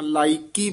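ਲਾਇਕੀ said as one unbroken word; joined word. Shown as a demonstration. Teacher confirms the pupil's reading, ਲਾਇਕੀ said in one piece. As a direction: run ਲਾਇਕੀ together without a gap. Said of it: "ਪਾਠ ਇਕੱਠਾ ਹੀ ਕਰਨਾ ਹੈ".

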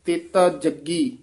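ਜੱਗੀ with a tight, doubled g; firm ਜੱਗੀ. Shown as a demonstration. Teacher showing a tight consonant, said firmly. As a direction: press the double g in ਜੱਗੀ hard. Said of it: "ਜੱਗੀ ਕੱਸ ਕੇ ਉਚਾਰਨ ਕਰਨਾ ਹੈ".

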